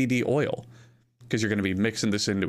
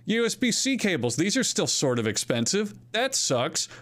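retold shopper; 5 semitones higher than usual. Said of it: "And I go".

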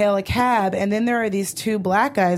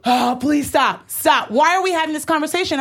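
pleading then exasperated; 4 semitones higher than usual. Retold or imitated. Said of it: "And I was like".

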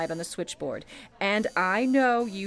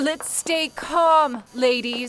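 slow, louder, steady command; firm calming order; 4 semitones higher, 4 dB louder, slower than usual. Acted. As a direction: hold the room with a measured call. Supervisor quiets panicking operators.

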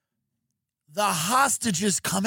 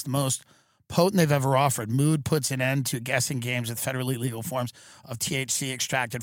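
even sponsor-read voice; 4 semitones lower than usual. Acted. Host selling THC products to listeners, scripted ad read. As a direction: read it out as podcast ad copy.

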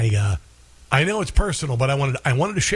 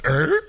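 stomach noise imitation; 3 semitones higher than usual. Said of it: "You know when your stomach goes".

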